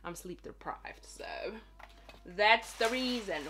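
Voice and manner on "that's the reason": emphatic. Pretend. Plain answer before squealed question.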